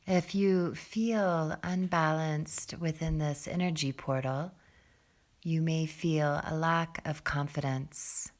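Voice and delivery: calm, soft meditation voice with long pauses; guided meditation. Real, not acted. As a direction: settle them gently into the breath, low and unhurried. Leads a seated breathing meditation.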